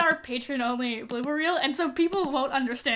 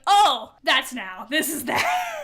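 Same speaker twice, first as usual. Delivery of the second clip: mock realization; 5 dB louder, slower than usual. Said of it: "and I was like".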